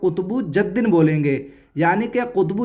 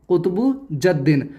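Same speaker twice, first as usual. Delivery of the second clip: letters joined as a word; 2 semitones lower than usual. Shown as a demonstration. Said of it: "आप ऐसे भी बता सकते हैं".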